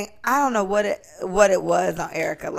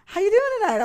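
nice officer; 11 semitones higher, much faster than usual. Retold or imitated.

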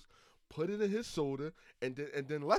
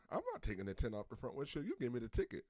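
nonchalant; 3 semitones lower, 6 dB quieter, faster than usual. Retold or imitated. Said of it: "being all nonchalant".

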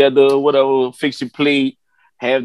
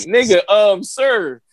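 rising, pitched-up disbelief; high flustered plea; 10 semitones higher than usual. Retold or imitated. He reacts to the dad peeing by the pump, rising and incredulous. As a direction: climb higher as you protest.

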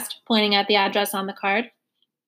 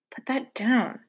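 whispered; 5 dB quieter, slower than usual. A narrator's reading. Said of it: "she whispered".

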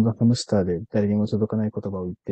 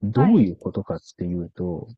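very slow speech; 4 semitones lower than usual. Shown as a demonstration. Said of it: "ゆっくり話しながら終わりますか".

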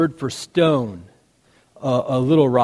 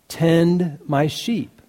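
slow, soft gentle charge; 3 dB quieter, much slower than usual. Retold or imitated. Jesus gently giving Peter his task, slow and soft. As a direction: lay the words down slowly and softly.

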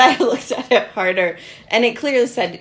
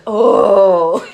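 giggly oh; 11 dB louder than usual. Retold or imitated. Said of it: "be like".

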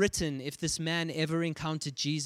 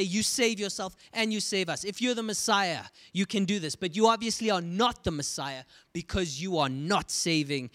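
mocking; 5 semitones higher than usual. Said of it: "He mocks Jesus to say".

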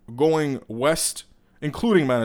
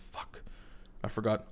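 muttered curse; 4 semitones lower, 13 dB quieter than usual. Real, not acted. Annoyed at self.

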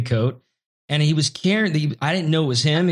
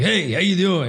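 a lightly voiced, slightly higher Pacino greeting; bad Al Pacino impression; 5 semitones higher than usual. Bumped into Pacino in a blizzard, mock Pacino greeting. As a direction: toss off a half-hearted Pacino "how you doing". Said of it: "a horrible Al Pacino impersonation".

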